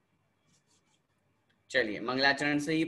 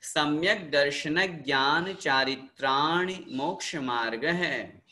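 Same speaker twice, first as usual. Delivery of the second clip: sutra recitation; slower than usual. Shown as a demonstration. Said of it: "जैसे जैसे मैं यहाँ से बोल रहा हूँ".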